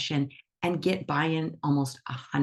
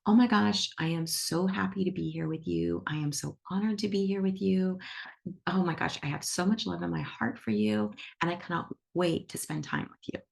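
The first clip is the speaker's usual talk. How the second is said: joyful greeting. Acted. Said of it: "we say".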